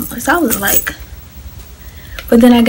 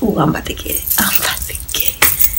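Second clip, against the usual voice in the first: scared; 5 semitones lower, 5 dB quieter, faster than usual. Retold or imitated. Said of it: "'Cause I was scared".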